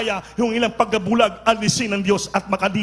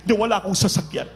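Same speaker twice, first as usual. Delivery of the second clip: mock excuses; 3 semitones higher than usual. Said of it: "Huwag mo sabihin".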